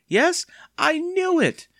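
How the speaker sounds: very high, loud triumphant cry; bellowing cry. A narrator's reading. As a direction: crow it at full pitch. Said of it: "bellowing in his ear".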